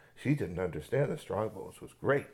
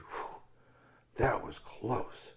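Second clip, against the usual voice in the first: relieved sigh; 5 dB quieter, much slower than usual. Acted. Relieved after escape.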